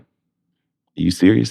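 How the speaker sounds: slow disbelief. Retold or imitated. Hearing he got the part.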